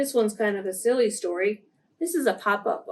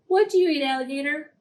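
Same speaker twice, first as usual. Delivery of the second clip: eager frog; 4 semitones higher, faster than usual. Acted. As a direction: ask the alligator boldly. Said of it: "said the wide-mouthed frog".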